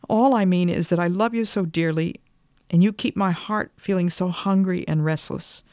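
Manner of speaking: high-pitched, mildly tearful outpouring; tearful pleading. A narrator's reading. Wife telling husband of her hungry heart, tearfully pleading. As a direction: plead with rising pitch, as if near tears. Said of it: "Will you stop crying".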